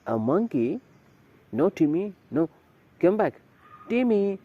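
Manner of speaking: put-on girl calling her dog away, urgent. A narrator's reading. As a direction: call the dog back sharply. Calling dog back from monkey.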